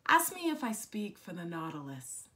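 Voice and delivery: deliberate poetic recital, openings of phrases emphasised; poem reading. Acted. Poet speaks for small spineless creatures on Earth Day, deliberate recital. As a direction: recite it as verse, pausing after each image. Reads second poem aloud.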